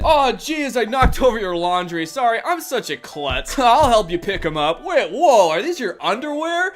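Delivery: loud, hammed-up parody of the hero; mock creep voice. Reviewer mocking the hero's romance, loud hammy. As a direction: overact the clumsy creep. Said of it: "What is this scene?".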